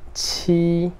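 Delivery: "ti" as an aspirated "tchi", high and level; first tone. Shown as a demonstration. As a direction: hold "ti" high and even, with a puff. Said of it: "primeiro tom".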